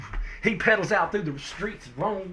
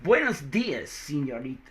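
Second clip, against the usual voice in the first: Spanish greeting, falling low at the end; Spanish accent; 4 semitones lower than usual. Acted. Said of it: "change my accent a bit".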